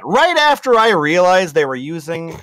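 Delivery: Latina mom voice. Acted. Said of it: "more Latina, uh, Republican mom".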